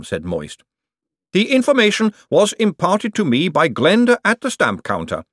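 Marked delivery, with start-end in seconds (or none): 1.3-5.2 high, prim golem voice. A narrator's reading. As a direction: report it like a dutiful golem. Gladys explains her source.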